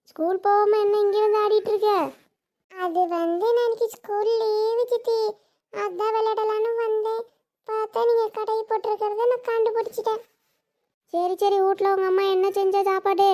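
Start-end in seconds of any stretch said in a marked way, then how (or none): 2.7-10.2 put-on lightly raised child voice; chatty little niece. Niece tells aunt it's a school holiday, chatty child voice. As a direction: explain yourself like a schoolgirl.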